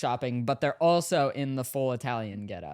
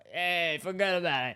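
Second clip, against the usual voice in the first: mock Italian accent; 2 semitones higher than usual. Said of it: "walking stereotype".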